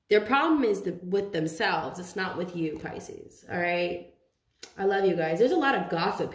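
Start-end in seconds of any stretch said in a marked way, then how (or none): 2.0-4.1 breathy whispered name. Real, not acted. Tarot reader whispering the sign to Pisces viewers. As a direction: drop to a whisper for one word. Aside to Pisces mid-reading.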